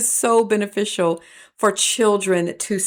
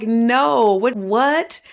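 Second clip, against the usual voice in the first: higher, louder mock exasperation; a touch of indignant disbelief; irritated; 4 semitones higher, 4 dB louder, much slower than usual. Aunt reacting to nephew, mildly indignant and raised. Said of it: "I got irritated".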